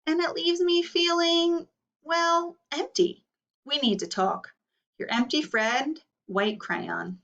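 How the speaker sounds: lightly voiced lonely crayon, slowing on empty; a wistful crayon feeling overlooked; a touch of a sad, ignored crayon; White Crayon's letter. Teacher reads White Crayon's letter.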